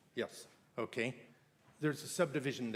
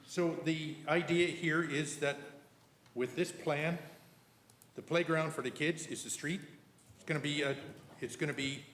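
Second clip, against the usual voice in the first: sarcastic; 5 semitones higher than usual. Real, not acted. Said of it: "I'm being sarcastic".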